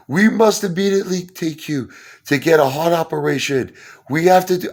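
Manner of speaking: put-on urgent Indian doctor accent, pitched high; hammed-up Indian accent, rushing the patient. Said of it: "some Indian guy".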